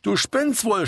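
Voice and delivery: narrator's restrained yell; mild indignant shout. A narrator's reading. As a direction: shout back over the noise. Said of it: "schrie Chrissy zurück".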